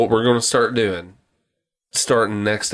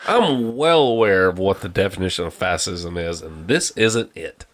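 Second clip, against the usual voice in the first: lower, measured retold reply; exasperated reply; 5 semitones lower than usual. Answering the fascism question, exasperated reply. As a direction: pitch it down, firmly informed.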